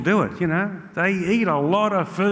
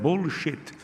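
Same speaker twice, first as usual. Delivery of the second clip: put-on angry Italian accent. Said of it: "I got a very angry".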